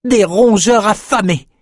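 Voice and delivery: high, slow ominous remark; Peretta's voice. A narrator's reading. Peretta sensing the rats, slow high voice. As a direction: savour the word hungry. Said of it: "fit Peretta".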